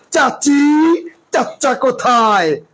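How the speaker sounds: "চাচি, চাচা" with exaggerated hard ch; over-hard "চ". Shown as a demonstration. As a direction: hit each ch in "চাচা" hard, as a joke demo. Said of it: "এত শক্ত করে বলি?".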